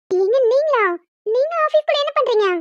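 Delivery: wife surprised to find her husband at the office. Acted. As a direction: caught off guard by his visit.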